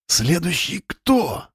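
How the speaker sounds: barely audible, choked, slow; strained whisper. A narrator's reading. Miroslava, choked with fear, whispers to Alyosha. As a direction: squeeze the words out in a whisper. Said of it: "шептала сдавленным, едва слышным голосом".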